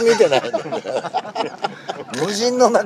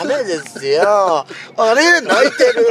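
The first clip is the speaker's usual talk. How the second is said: surprised; 4 semitones higher, 4 dB louder, slower than usual. Retold or imitated. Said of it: "みたいな".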